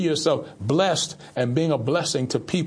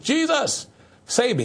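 Jesus cried out much higher, save me still high and pleading; fervent cry; 9 semitones higher, slower than usual. Shown as a demonstration. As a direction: call out to Jesus with urgency. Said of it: "Just say that".

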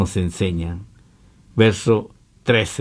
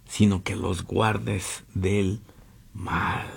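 slow, dropping into a whispered mal; fading to a whisper; 7 dB quieter, much slower than usual. Acted. Pastor reading the verse to his church, fading to a whisper.

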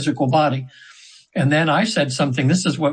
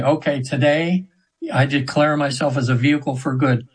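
declaration. Shown as a demonstration. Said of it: "just say".

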